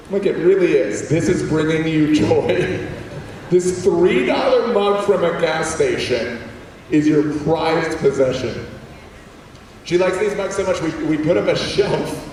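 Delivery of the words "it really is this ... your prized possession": slow, drawn-out disbelief; mock amazement. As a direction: spell it out slowly, teasing mom. Comic reply to mom about mug.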